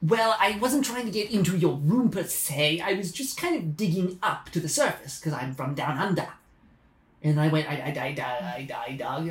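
put-on a light Australian accent. Digger from down under apologises, light Australian accent. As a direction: play it as a lightly done Australian. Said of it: "is that an Australian accent?".

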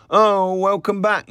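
high, loud welcome; effusive greeting. A narrator's reading. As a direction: greet her with a big delighted lift. Greeting a returning barmaid effusively.

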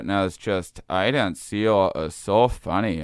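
imitating mom's Fargo accent; lightly voiced upper Midwest accent; Minnesota accent. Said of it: "make her talk about Fargo".

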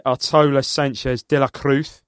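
light attempt at a Spanish accent. Shown as a demonstration. Cohost reads squad list on request, light Spanish accent. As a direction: read names in your best Spanish accent. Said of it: "best Spanish accent".

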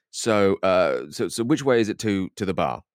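brisk, offhand question to a local; quick English tourist question. Retold or imitated. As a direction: rattle it off assuming everyone speaks English. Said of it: "very quickly".

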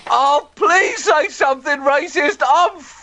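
high, slow, pleading whine; desperate begging. Acted. Gordon Brown begging Mrs Duffy for a racist remark, in a high, slow whine.

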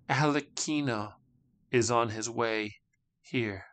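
dry voice. Acted. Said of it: "said the dry speaker".

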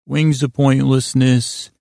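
slow, soothing bedtime drone; lulling, soothing tones. Real, not acted. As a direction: lull them gently towards sleep. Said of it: "I'm gonna use the lulling, soothing tones".

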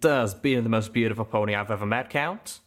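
smiling. Acted. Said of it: "I could hear the smile in Calamity's voice".

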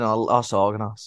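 slow Scouse accent, Las Organas drawn out; a Liverpool holiday-maker's Scouse accent. Shown as a demonstration. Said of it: "saying it in a Scouse accent".

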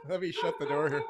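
turned away, voice fading off mic; speaking while shutting the door; closing door mid sentence. Real, not acted. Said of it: "Hold on".

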